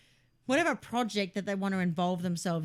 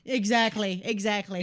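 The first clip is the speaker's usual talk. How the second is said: laughing agreement; 6 dB louder than usual. Real, not acted.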